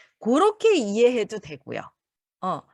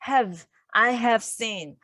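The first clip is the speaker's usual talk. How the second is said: halting learner; much slower than usual. Shown as a demonstration. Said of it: "이런 말투가 잘 나오지 않죠".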